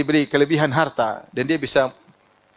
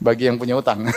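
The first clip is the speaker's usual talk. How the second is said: laughing; 4 semitones lower than usual. Real, not acted. Laughs at own joke.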